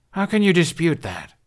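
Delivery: indignant outburst. A narrator's reading. Hiccup angry at disbelief.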